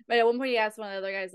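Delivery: ordinary delivery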